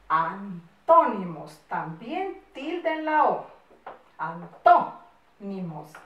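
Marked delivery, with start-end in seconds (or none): 0.1-1.6 loud, stretched-out syllables; slow dictation. Shown as a demonstration. Teacher dictating title slowly. 4.2-5.9 broken after a loud "tó"; slow dictation. Shown as a demonstration. Teacher dictating, marking accented syllable.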